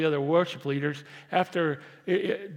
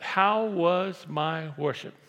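slow question; 3 dB louder, much slower than usual. Shown as a demonstration. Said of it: "You don't say anything else but".

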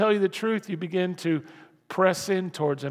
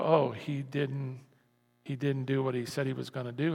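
mock disappointed; 4 semitones lower, 6 dB quieter than usual. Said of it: "what we do is we go".

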